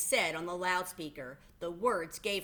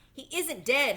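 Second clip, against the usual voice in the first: higher, louder protest; hollering; 7 semitones higher, 7 dB louder than usual. A narrator's reading. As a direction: shout back at the announcer. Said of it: "hollered Zuckerman".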